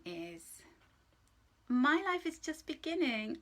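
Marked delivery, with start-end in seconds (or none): 1.7-3.4 bright, louder, higher read of the affirmation; affirmation aloud. Shown as a demonstration. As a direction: announce "My life is just beginning." with lifted voice. Reads affirmation, then repeats.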